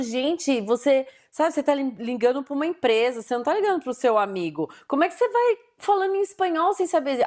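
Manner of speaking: exasperated scolding, pitch climbing at the end; retold annoyance, rising to a high-pitched question; irritated. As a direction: tell off a presumptuous caller. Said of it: "isso me dá muita raiva".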